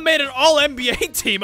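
surprised, the voice breaks upward; voice crack. Real, not acted. Reading the sim result, voice cracks up. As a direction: voice cracks high mid-sentence with a laugh. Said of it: "That was a great voice crack".

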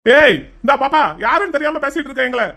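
indignant telling-off of the nurse; shouting angrily. Acted. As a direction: confront the nurse, affronted. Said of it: "sir, கத்தாதீங்க sir".

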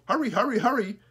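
high, loud squawked hurry hurry hurry; Smoky the crow calls at the other crows, high and loud; crow calling. Acted. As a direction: call it out like a cawing crow. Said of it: "He called".

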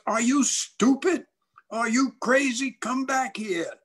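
high-pitched incredulous heckle; mock kids' holler, high and insistent; heckling kids. Kids heckle boy boarding the ark.

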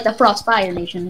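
"Frostfire" with the weight on "fire"; stress on FIRE. Shown as a demonstration. Coaching a friend on the name, stress on "fire". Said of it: "put emphasis on that fire".

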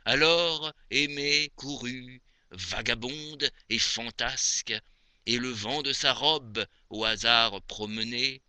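measured poetry reading with long pauses between phrases; poem recitation. Acted. Reciting Maupassant's moonlit poem to dear Aimée, poem recitation. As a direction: recite each verse phrase by phrase, expressively.

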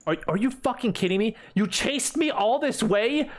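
high, drawn-out indignation; exasperated outrage. Real, not acted. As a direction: stretch the words out in disbelief. Outraged at enemy that chased him.

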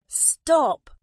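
high, loud protest; crying out. A narrator's reading. Elephant to the pecking birds, high loud cry. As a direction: shout it as a sudden plea. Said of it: "cried the elephant".

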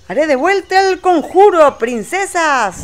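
grand spell voice. Pretend. Pony casting spell.

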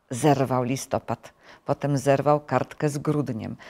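ordinary delivery, nothing marked

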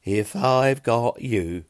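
slow whisper, lost in thought; dreamy whisper. A narrator's reading. Pilk echoing Fiona's words, in a slow dreamy whisper. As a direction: breathe it out, smitten. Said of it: "with a soppy grin on his face".

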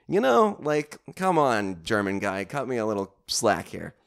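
high, loud and slowed come on; pleading with the German guy, come on; exasperated plea. Real, not acted. Speaker pleads to the German waiter, high and exasperated. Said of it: "exasperated plea".

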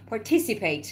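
Participate with the stress on "ti"; stress on second syllable. Shown as a demonstration. Teacher repeats the word after the rule, Participate stressed on "ti". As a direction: lift the "ti" in Participate. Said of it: "رو ت میری بالا".

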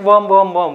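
WORM as one word, said three times in a row; pronunciation demo. Shown as a demonstration. Lecturer shows students how to pronounce the abbreviation, demonstrating "worm". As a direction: sound out "worm" as a single word, repeated evenly. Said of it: "we will pronounce it like".

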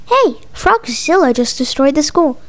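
plain reading voice

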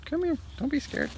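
very high soothing pet voice; coaxing a pet. Real, not acted. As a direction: coax a scared bird gently. Coaxing a scared bird.

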